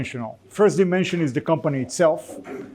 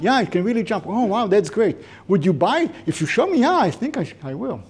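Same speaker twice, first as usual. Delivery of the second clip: mock polite yes; 5 semitones higher than usual. Acted customer replies enthusiastically.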